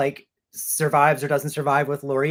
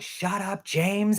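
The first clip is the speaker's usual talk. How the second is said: raised-pitch mock yell, not loud; half-voiced imitation of screaming; imitated nephew's scream; 5 semitones higher, much slower than usual. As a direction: act out a kid's gleeful yell, held back. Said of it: "screaming in my face louder and louder".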